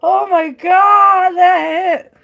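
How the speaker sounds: overwhelmed by laughter, barely getting it out; loud laughing. Real, not acted. Tarot reader after her own joke, loud real laughter. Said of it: "I was laughing so hard".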